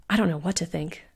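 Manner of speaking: a touch of gloom; mildly dark. Acted. Bellamy to the sisters, uneasy, mildly dark. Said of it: "said Bellamy darkly".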